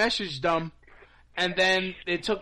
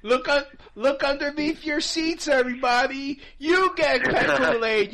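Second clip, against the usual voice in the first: game show host; 6 semitones higher, 3 dB louder than usual. Pretend. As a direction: announce it like a hyped host. Mock stage host to audience.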